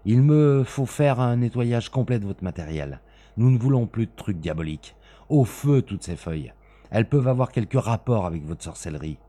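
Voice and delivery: loud, high, stern orders; stern avenger. Acted. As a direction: sweep the papers into the fire. Smith orders papers burned.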